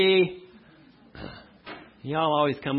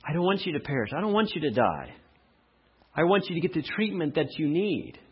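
a gentle, pleading voice, softer; pleading softly; 4 dB quieter than usual. Acted. God softly pleading with a dying sinner. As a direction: beg them tenderly not to perish.

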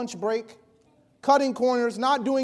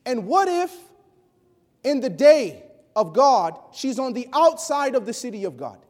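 raised, higher, pleading preacher's cry; passionate preaching; 5 semitones higher, 5 dB louder than usual. Real, not acted. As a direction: build it like a sermon climax. Anguished preaching after failed sale.

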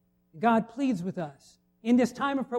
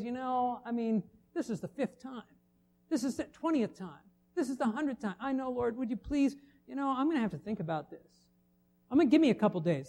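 grudging God; 8 dB quieter than usual. Retold or imitated. God voiced holding a grudge.

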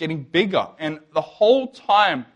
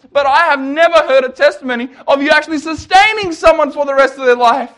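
ordinary talk

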